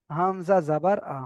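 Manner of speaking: slow, deliberate letter-by-letter recitation; measured spelling-out drill. Shown as a demonstration. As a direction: spell out "হামজা জাবার আ" unhurriedly. Teacher demonstrates spelling-out recitation.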